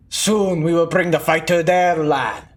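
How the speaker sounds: drawn-out, heavy villain oratory; slow menacing speech. Acted. Villain vowing war, slow and menacing. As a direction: let each phrase hang, slow and threatening.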